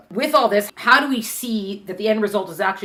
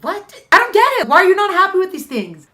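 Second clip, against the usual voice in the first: baffled husband; 9 semitones higher, 6 dB louder than usual. Acted. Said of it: "And the prince is like".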